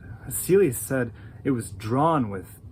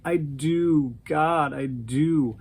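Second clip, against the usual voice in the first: conflicted; much slower than usual. Retold or imitated. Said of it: "he sounded all conflicted about it".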